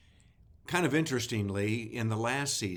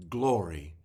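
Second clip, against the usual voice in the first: glory repeated lower and less loud; softer echo of glory; 3 semitones lower, 4 dB louder than usual. Acted. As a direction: let the second glory fall back. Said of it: "with each one shouting".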